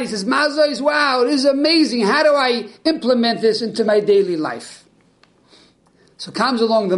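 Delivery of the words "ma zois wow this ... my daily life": high, thrilled and breathless; excited. Acted. Simpleton thrilled at the Seder, asking excitedly. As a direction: bubble over with discovery. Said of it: "And he's all excited".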